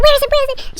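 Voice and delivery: high-pitched mock frenzy; frantic searching. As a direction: repeat it like someone ransacking a room. Girl throwing everything, searching.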